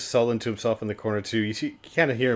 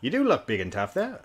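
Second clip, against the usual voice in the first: lightly voiced character, lifted higher; corrected character voice; 4 semitones higher than usual. Game master retries the teasing line, higher character voice. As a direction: redo it higher, with the end rising. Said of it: "I got the voice wrong, but".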